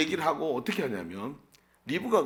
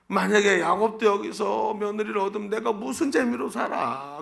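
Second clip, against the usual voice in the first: higher-pitched mock lament of a wife; sighing grumble; 6 semitones higher than usual. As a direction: grumble wearily, imitating a fed-up mother-in-law. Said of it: "또 한숨을 쉬면서". (한숨 섞어 투덜대는 아내 흉내)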